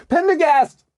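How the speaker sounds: loud, high call; shouting a name. A narrator's reading. Margot shouts for the agent far ahead, loud and high. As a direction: yell his name down the dark tunnel. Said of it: "she shouted".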